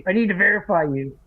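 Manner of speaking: condescending. Retold or imitated. Imitating the social worker, firm and condescending. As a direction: repeat the demand with fake authority. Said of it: "like, condescending".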